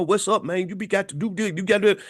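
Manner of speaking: imitating a hood friend's encouragement; hood talk imitation. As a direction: lightly put on a homeboy's pep talk. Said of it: "He be talking like".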